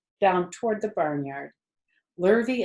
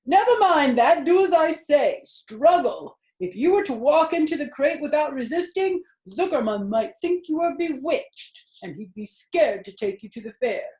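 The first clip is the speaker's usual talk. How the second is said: put-on louder, higher old sheep urging; urgent old sheep; 10 semitones higher, 7 dB louder than usual. A narrator's reading. Old sheep urging Wilbur to struggle, loud and urgent. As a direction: press the pig to fight.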